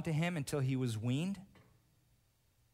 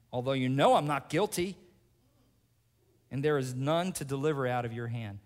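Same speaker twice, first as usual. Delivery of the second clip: 1 Job's challenge; 3 semitones higher, 5 dB louder than usual. Acted. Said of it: "Job asks God".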